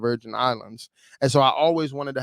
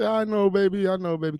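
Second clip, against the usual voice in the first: a hint of a higher, soothing mother; comforting mom; 7 semitones higher than usual. Mom comforts her crying son, lightly voiced soothing. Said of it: "she said".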